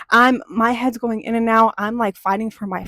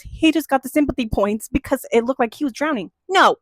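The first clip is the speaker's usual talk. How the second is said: a real, fired-up rebuttal to the aunt; heated retort; 3 semitones higher than usual. Real, not acted. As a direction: argue back, getting heated. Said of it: "I'm getting heated now".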